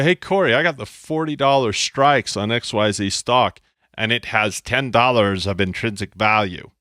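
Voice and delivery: a mild nerdy textbook voice, bright on Hey. Pretend. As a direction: say it like a mild stock-market nerd. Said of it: "That's nerd, dude".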